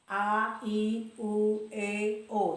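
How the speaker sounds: open, rounded vowel demo. Shown as a demonstration. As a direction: clear rounded A I U E O. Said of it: "Jadi bentuk bibirnya bulat".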